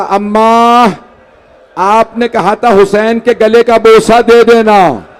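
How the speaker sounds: chanted, grieving storyteller's cadence; mourning recitation. Acted. Preacher recites the martyrdom to the gathering, in a mourning chant. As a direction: recite the tragedy to move the mourners. Majlis narration continues.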